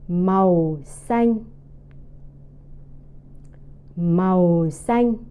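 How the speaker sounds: slow "Màu" sinking, "xanh" held level; falling then level. Shown as a demonstration. Teacher drilling green for repetition, falling then flat tone. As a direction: drop on "Màu", then hold "xanh" steady. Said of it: "second and then the first tone".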